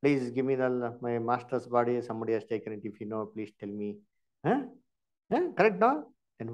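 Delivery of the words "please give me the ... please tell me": pleading Mary. Retold or imitated. Grieving Mary begs the gardener for her master's body, fading plea. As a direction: lower and softer, fading to a plea. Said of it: "She is telling".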